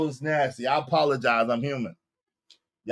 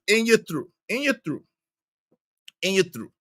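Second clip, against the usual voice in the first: Drip's catchphrase; 4 semitones higher, 3 dB quieter than usual. Retold or imitated. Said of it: "like Drip say".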